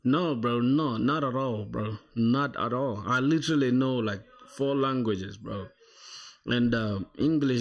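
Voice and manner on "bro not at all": ordinary delivery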